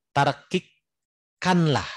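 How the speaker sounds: tarkikkanlah drawn out slowly and thinly; thin pronunciation. Shown as a demonstration. Teacher demonstrating a thin letter, slowly and thinly. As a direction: stretch tarkikkanlah with a light thin sound.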